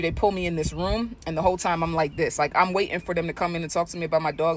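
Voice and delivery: ordinary delivery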